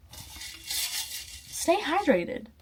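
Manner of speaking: very slow breathy whisper, stretching hydrated; drawn-out whisper. Real, not acted. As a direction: whisper it slowly like a secret. Playful advice sign-off.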